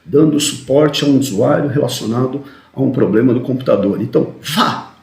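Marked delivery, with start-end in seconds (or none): 4.4-4.9 "vá" set apart with a rising inflection; stress on VÁ. Shown as a demonstration. Trainer shows intonation on an analyst's instruction, stress on "vá". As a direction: punch "vá" as its own word. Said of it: "tem entonação ali".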